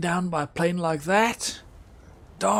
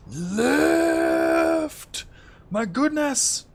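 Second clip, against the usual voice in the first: urgent; 8 semitones higher, much slower than usual. Real, not acted. Plane sliding toward a cliff.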